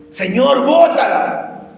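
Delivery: disciples complaining. Retold or imitated.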